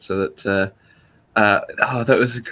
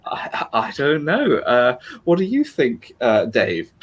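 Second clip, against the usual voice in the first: Dave impression; 2 semitones higher, slower than usual. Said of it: "Dave would say".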